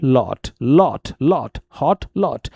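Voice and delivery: लॉट and हॉट with short rounded o; British rounded O. Shown as a demonstration. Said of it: "ओ sound होता है short और rounded". (लॉट, हॉट में छोटा गोल ओ)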